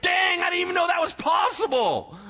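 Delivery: high, loud, astonished exclamation; amazed angels. Retold or imitated. Angels watching God build the system, in high, loud amazement. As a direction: blurt it out in sheer disbelief. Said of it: "and they're like".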